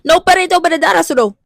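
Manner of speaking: "No puedo soportar esto" with blurred consonants, like "no pe-ret obadedar asodo"; Spanish spoken badly; mangled Spanish.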